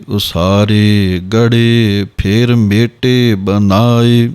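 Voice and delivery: slow, measured chanting of verse; slow Gurbani path recitation; scripture recitation. Shown as a demonstration. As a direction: recite each line slowly and evenly, as in path.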